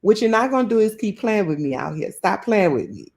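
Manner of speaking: straight New Orleans telling-off; a playful show of annoyance, laying down a warning; mock mad. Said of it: "'Cause when I'm mad, I be like".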